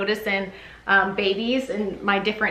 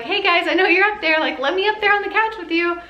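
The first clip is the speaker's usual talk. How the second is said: voicing the baby; 9 semitones higher, faster than usual. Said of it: "look like".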